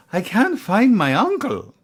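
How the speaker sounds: loud, high imitation of a Northern Irish accent; thick Northern Irish accent. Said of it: "her accent's so thick".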